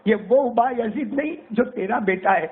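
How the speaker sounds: high, slow farewell call over the shoulder; boy calling back. Retold or imitated. Boy calls back a farewell to his mother without turning. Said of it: "اور زور سے کہا".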